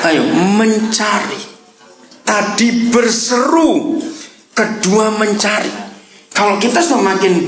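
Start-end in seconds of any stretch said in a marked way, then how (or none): 0.1-5.7 mencari drawn out slowly and high; slow stress on mencari. Shown as a demonstration. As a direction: lean on mencari. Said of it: "emphasising mencari". (tekankan kata mencari)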